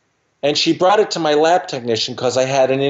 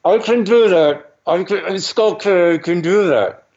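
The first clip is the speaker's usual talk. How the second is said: higher, dreamy voice of a hypnotized patient chanting to herself; patient reassuring herself; 4 semitones higher, slower than usual. Retold or imitated. Hypnotized dental patient telling herself she can do it, in a higher, dreamy voice.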